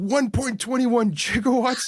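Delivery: high, frantic, panicked, losing-it exclamation. Retelling a man losing his mind over a power figure: acting panicked, losing his mind. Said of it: "he loses his mind. He's like".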